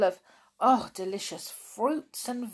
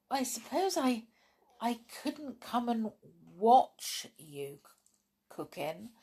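longingly; 3 semitones higher, 3 dB quieter than usual. Acted. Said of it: "said Angela longingly".

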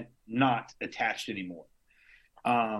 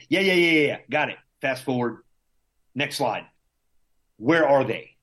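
impatient yelling; 2 semitones higher, 5 dB louder than usual. Retold or imitated. Patient cutting off the doctor's bad news, impatient loud yell. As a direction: cut him off and demand it, rude and loud. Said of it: "it's just me being a prick".

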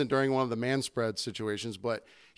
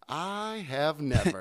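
slow disbelief; 2 semitones higher, much slower than usual. Retold or imitated. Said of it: "I was like".

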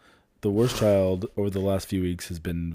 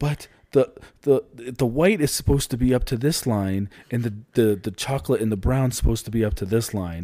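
whiny crying voice. Retold or imitated. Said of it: "this is her in her, like, whiny, crying voice".

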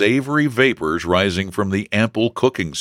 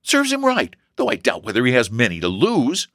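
put-on pitched-up, spiteful girl; 7 semitones higher than usual. A narrator's reading. Sister scorns her brother's friend, spiteful. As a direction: toss it off with spite. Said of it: "said Elsie spitefully".

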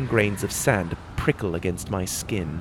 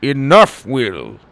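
loud command rising on Enough; loud urgent order; shout; 2 semitones higher, 6 dB louder, slower than usual. Acted. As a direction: stop him mid-swing. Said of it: "Gabriel shouted at me mid-strike".

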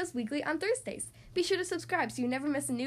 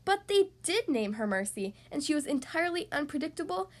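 emphatic storybook ending, slowing at the close; story narration for children. Acted. Narrator closes the piglet's tale for children, measured storytelling. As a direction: wind the tale down, stretching the last words.

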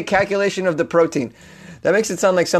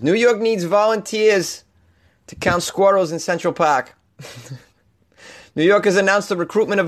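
Boston accent. Shown as a demonstration. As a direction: lay on a heavy Boston accent. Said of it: "I'm delivering this in my thick Boston accent".

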